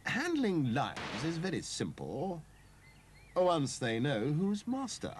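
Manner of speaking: pompous, know-it-all cat voice. Acted. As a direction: lecture her like a self-important expert. James boasts about lions.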